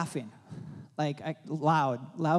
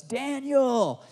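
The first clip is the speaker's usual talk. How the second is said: high, loud joyful shout of a name; calling out his name; 10 semitones higher, 4 dB louder than usual. Retold or imitated. Older minister grabbing the pastor, shouting his name joyfully. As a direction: belt the name out like a sudden blessing. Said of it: "and he goes".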